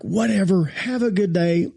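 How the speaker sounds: high, curt brush-off; dismissive. Retold or imitated. Groundsman brushing off the pastor, dismissive. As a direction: wave him off like you're done. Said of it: "he's like".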